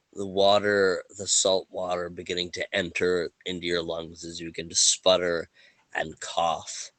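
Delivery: measured storytelling with dramatic pauses; unhurried scene-setting, phrase by phrase; game master narration. Acted. Game master sets drowning scene.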